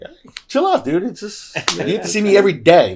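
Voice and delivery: squeaky high, fast placating voice; high-pitched reassurance. Retold or imitated. Father calming jealous son, high and quick. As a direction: chirp it up high to calm him. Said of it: "And I'm like".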